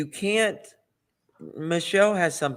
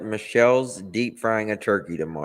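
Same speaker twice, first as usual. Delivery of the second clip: excited announcement. Real, not acted. Shocked announcement.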